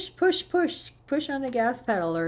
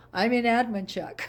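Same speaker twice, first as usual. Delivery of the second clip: laughing; 4 semitones higher than usual. Shown as a demonstration. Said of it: "because of the accent".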